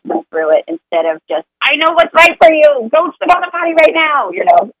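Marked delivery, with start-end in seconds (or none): 1.6-4.3 higher, mock-bossy order; a pushy parent ordering the child onto the potty. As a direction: lay down the law to a toddler in a mock voice. Overbearing parent bossing child.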